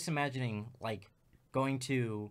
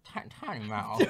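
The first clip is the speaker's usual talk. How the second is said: tiny-mouth character; 2 semitones lower than usual. Retold or imitated. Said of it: "same face where you're like".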